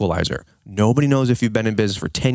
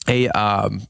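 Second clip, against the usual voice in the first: hoarse voice. Real, not acted. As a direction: voice worn rough and dry. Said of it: "my voice is gone".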